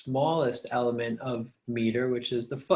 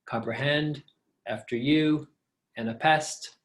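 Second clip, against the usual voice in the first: "comprehend, after you, and a pest" weighted on each last syllable; two light beats then a strong one: "comprehend", "after you", "and a pest"; anapest stress; 2 semitones higher than usual. Shown as a demonstration. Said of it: "sort of a galloping horse sound".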